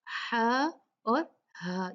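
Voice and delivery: first "हा" throaty, second "हा" plain; slow "हा और हा", two different h's; contrasted h sounds. Shown as a demonstration. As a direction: squeeze the first "हा", release the second. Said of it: "दोनों हा अलग-अलग हैं".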